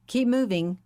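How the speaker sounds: a polite order that brooks no argument; courteous but authoritarian. Acted. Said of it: "said a courteous but authoritarian voice".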